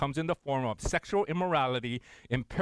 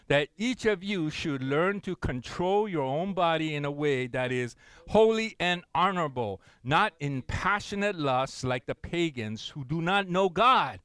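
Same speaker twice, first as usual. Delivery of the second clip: slow, loud, emphatic reading; preacher reading Hebrews aloud; scripture reading; 3 dB louder than usual. Acted. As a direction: proclaim the verse to the congregation.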